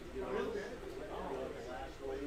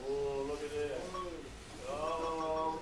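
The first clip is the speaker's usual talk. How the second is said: excited; 4 dB louder, slower than usual. Real, not acted. Race start, watching cars.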